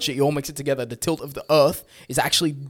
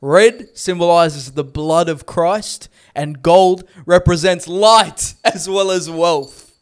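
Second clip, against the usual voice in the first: fact reading; much slower than usual. Acted. Reads a fact slowly.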